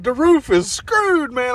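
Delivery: lightly voiced driver lamenting; imitating Donald. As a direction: play the driver griping. Donald quoted from the car.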